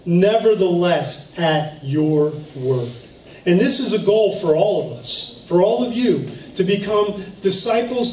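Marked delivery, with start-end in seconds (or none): 0.1-2.9 slow and lower, each word weighed; a hint of hushed surrender, slow; slow, sincere resolve. Shown as a demonstration. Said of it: "speaking this word to myself".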